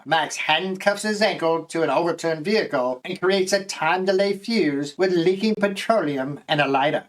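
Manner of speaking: put-on Australian accent with a British tinge. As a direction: narrate in a light Australian accent. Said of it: "My Australian accent has a little British sound".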